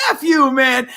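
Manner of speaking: high-pitched mock shout; mock angry retort. Mother cursing the dog's owner, mock angry shout. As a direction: imitate an indignant comeback. Acted quarrel over barking dog.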